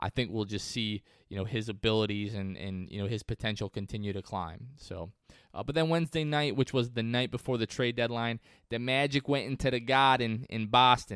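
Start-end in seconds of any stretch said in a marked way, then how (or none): 8.7-11.2 put-on New England Boston accent. Telling how a team played in Boston: attempted Boston accent. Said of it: "my best attempt at a".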